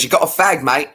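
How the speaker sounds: lightly put-on London accent; mock London bloke accent. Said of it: "I'm in London and someone goes".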